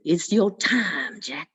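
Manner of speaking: very slow, low, ominous; slow devil's summons. Acted. The devil comes back for Jack, slow and ominous. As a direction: draw it out like a final sentence.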